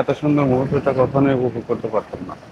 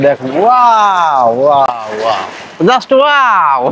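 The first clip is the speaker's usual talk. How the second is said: awed wow; much slower than usual. Real, not acted. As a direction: gasp at the big waves. Awed by river waves again.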